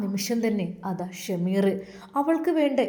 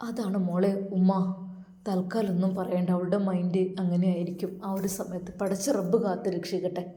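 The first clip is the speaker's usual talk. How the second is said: lightly voiced mother. Narrator voices the mother-in-law. (അല്പം താഴ്ന്ന സ്വരത്തിൽ സ്നേഹമുള്ള ഉമ്മ)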